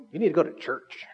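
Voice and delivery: preachy attitude. Retold or imitated. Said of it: "It's like attitude".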